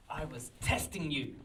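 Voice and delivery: measured mock-dramatic reveal; priest's reveal. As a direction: deliver it as a knowing revelation. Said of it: "he turns around and he says".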